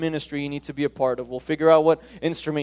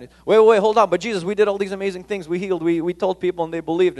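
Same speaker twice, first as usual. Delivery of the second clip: excited protest; 4 semitones higher, 5 dB louder, faster than usual. Retold or imitated. Disciples protesting to Jesus.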